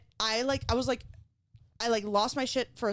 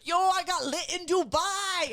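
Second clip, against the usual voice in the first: mock kid voice; 8 semitones higher, slower than usual. Mimicking a drunk kid.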